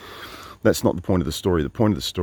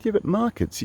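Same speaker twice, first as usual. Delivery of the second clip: countering, high. Retold or imitated. Countering him in debate.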